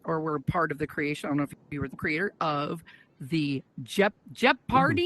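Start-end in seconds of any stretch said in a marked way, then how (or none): 4.3-5.1 Jeopardy said as "jep-PAR-tee"; mispronounced Jeopardy. Real, not acted. Host naming the guest's game, Jeopardy as "jep-party". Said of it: "it's pronounced".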